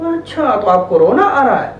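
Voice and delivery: put-on soothing, understanding reply to a crying child; name the child's feeling kindly; gentle acknowledging. Shown as a demonstration. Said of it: "उन्हें अल्फाज दें".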